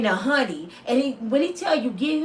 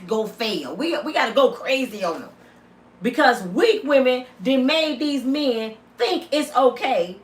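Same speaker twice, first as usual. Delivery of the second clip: usual speaking voice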